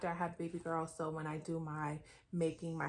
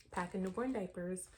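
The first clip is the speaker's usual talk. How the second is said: hiccups; 3 dB quieter than usual. Real, not acted. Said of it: "Sorry, I got the hiccups".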